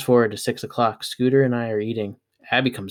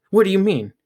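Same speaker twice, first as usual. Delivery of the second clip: surprised; 9 semitones higher, 5 dB louder than usual. A narrator's reading. Girl alarmed.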